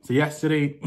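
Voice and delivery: lightly put-on American accent. Shown as a demonstration. Vlogger telling viewers about yesterday, lightly put-on American accent. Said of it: "let me do an American accent".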